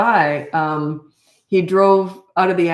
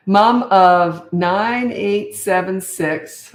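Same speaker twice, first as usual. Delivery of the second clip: slow, drawn out, louder counting of the numbers; 6 dB louder, much slower than usual. Shown as a demonstration. Reading out a follower's family size, slowly and louder. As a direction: spell out each number slowly. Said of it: "See, I had a little break in there".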